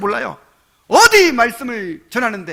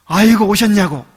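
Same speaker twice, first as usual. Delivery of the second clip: mock welcome; 7 dB louder than usual. Mock warm church welcome.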